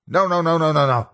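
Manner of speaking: high, frantic string of no's; terrified pleading. A narrator's reading. Cornered narrator begging the animatronic, terrified. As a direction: beg in panic.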